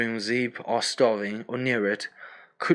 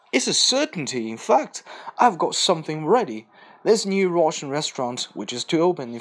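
higher, breezy cheerful Boris; careless; 3 semitones higher than usual. Acted. Boris brushing off his friend's worries: higher careless cheer. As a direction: toss it off carelessly, all optimism. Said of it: "He said carelessly".

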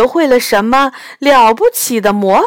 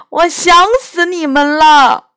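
crying out; 6 semitones higher, 4 dB louder than usual. Acted. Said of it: "我哭着喊着说".

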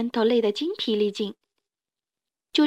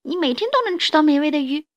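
put-on higher-pitched baby dinosaur bargaining for its life; pleading little dinosaur; 4 semitones higher, 3 dB louder than usual. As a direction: plead earnestly as a small dinosaur.

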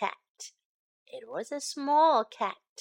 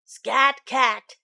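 louder shoo at usual pitch; a bat chasing the cat away; firm, louder "Scat Cat"; 7 dB louder than usual. Acted.

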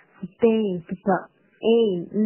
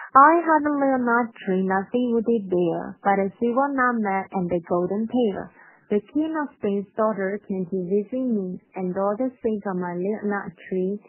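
nursery rhyme read a little quicker; slightly faster. Shown as a demonstration. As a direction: recite the rhyme briskly, running the lines together. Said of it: "第二遍稍微快一点啊". (稍微快一点朗读童谣)

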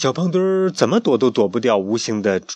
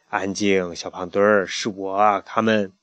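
soothing; 4 semitones lower than usual. Acted. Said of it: "轻轻地拍拍他".

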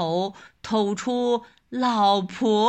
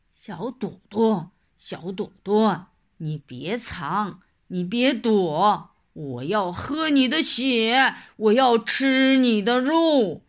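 hissing feral vampire; 2 semitones lower, 3 dB louder than usual. Acted. Tiger threatens to eat girl.

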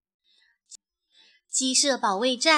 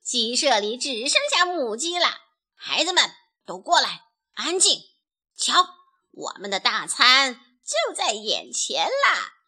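gloating bandit leader rallying the gang; lightly voiced bandit chief; 5 dB louder than usual.

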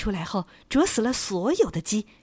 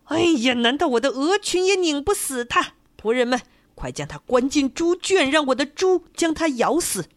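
exasperated shout; 6 semitones higher, 4 dB louder than usual. Acted. Landlord outraged again.

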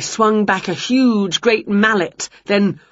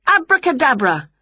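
spell incantation; 7 semitones higher than usual. Acted. Casting spell.

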